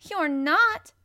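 high, loud flat-out contradiction; unsympathetic contradiction. A narrator's reading. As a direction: contradict without any sympathy, loudly. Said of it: "contradicted Mary unsympathetically".

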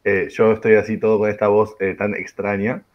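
strange, damaged-sounding voice; broken voice. Real, not acted. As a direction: talk through a worn-out voice. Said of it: "con una voz averiada".

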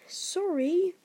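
high, loud bark; indignant bark. A narrator's reading. Hagrid throwing Harry's apology back, barking. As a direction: bark the word back in disbelief. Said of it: "barked Hagrid".

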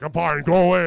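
loud, curt brush-off; mock annoyed outburst; retold irritated dismissal. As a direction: shoo them off loudly. Waves off medics, retold.

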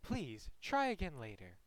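slow, soft recorded operator voice; automated phone message. Pretend. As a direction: read it like a flat phone recording. Mocking the dropped call message.

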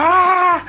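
high laughing whoop; imitated party yell. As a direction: yell it like a wild dancer. Client screams again dancing.

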